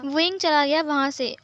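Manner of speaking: usual speaking voice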